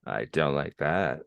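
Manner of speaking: put-on sassy Valley Girl echo. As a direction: throw it back with attitude. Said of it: "so much sassier than me".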